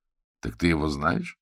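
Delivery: ordinary delivery, nothing marked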